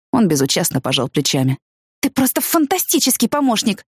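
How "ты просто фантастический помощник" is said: snapping sarcasm. A narrator's reading. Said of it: "огрызнулась я".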